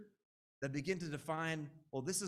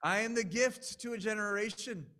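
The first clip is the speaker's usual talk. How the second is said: louder, higher, grandly self-important; swelling arrogance; 6 semitones higher, 6 dB louder than usual. Retold or imitated. Preacher confessing his proud inner voice, grandiose and louder. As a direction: puff up like you're God's gift. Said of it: "I've had thoughts like".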